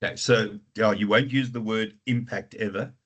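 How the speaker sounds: ordinary delivery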